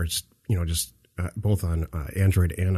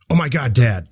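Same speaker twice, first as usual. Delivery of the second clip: louder, higher exasperated outburst; exasperated kid; 5 semitones higher, 6 dB louder than usual. Acted. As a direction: cut off a droning dad in mock exasperation. Kid interrupts the droning dad impression.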